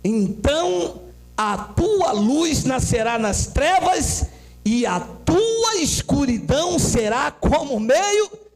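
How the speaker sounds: slow, solemn verse with long-held words; scripture reading. Real, not acted. Preacher reads verse ten to the church, slow declamation. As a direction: let each phrase of the verse hang.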